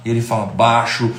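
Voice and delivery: ordinary talk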